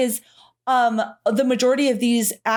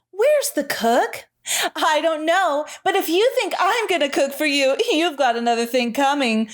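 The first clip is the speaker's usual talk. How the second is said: fifties commercial voice. Retold or imitated. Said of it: "sound like they're in a fifties commercial".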